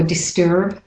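disturb with an American r sounded; American accent on disturb, r-coloured vowel; American pronunciation. Shown as a demonstration. Teacher offering the American version, disturb with American r. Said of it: "for the American".

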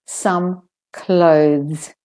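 "clothes" ending in voiced th into z; careful "clothes" with buzzed ending; clear Z. Shown as a demonstration. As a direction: model "some clothes", word by word. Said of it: "saying the Z's properly".

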